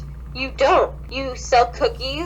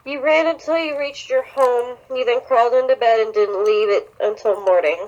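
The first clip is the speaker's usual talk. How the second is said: reading a creepy fanfic aloud, mildly dramatic; story reading; 2 semitones lower than usual. Acted. Friend reads a creepy fanfic aloud, mildly dramatic. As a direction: narrate the horror scene with light drama.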